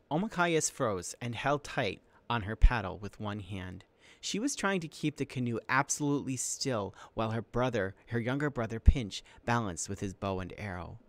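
animated read-aloud to students; story narration. A narrator's reading. Teacher reads an adventure chapter to students, story narration.

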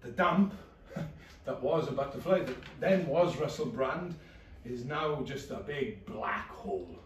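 flat depressed narration. Acted. Low depressed inner narration.

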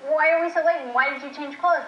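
high, exasperated retold scolding; mock scolding. Wife imitating husband's impatient scolding about being late.

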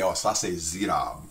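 slow Cajun French "ça c'est zirab"; Louisiana French. Shown as a demonstration. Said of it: "We say".

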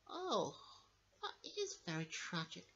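mock tragic. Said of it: "I'm gonna have to cry".

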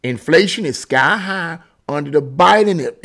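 usual speaking voice

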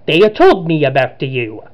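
slow, put-on Italian accent; Luigi. Villain confronts Richard in a cutscene, put-on Italian accent. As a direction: read it in an amateur Italian accent. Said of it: "Sorry, I didn't do the accents".

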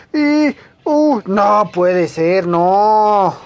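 the jump fails and hope drains away; dismayed groan. Real, not acted. Gamer missing an ice jump, slow dismayed groan.

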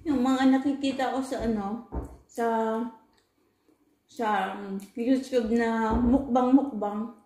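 chewing pizza while talking; talking between bites; mouth full. Real, not acted. Seen 3: Holds pizza slice at mouth, appears chewing during speech.

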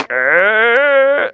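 high strained grunt; showy wrestler roar, imitated; wrestler's straining growl. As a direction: strain like a TV wrestler puffed up with air. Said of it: "those wrestlers do that on T V".

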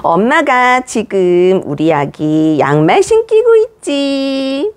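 put-on slow, gentle running commentary to a baby; narrating to baby. Shown as a demonstration. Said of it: "자신의 행동을 생중계해보세요". (아기에게 행동을 천천히 생중계하듯)

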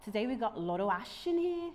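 attempted Brummie intro, slightly off; Birmingham accent. Shown as a demonstration. Host introducing a rapper, attempted Birmingham accent. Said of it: "do it in a Brom accent".

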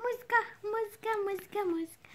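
soft, repeated half-whispered chant; teasing murmur. Real, not acted. Teasing the puppy, hushed repetitive chant.

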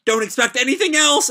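high, loud desperate yell; high desperate shout. Acted. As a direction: scream it at them. Nataku screaming defiance.

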